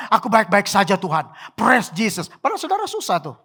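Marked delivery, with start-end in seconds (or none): 0.1-2.3 mock composed, pretend all is fine; playing a fake-contented worshipper; hypocritical piety. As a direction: put on a pious front. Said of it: "Kalau munafik begini".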